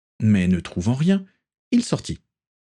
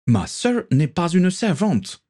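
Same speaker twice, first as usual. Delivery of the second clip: higher, slower indignant cry; cried out; 9 semitones higher, slower than usual. A narrator's reading. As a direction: cry it out, offended for his sister. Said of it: "s'écria Denise".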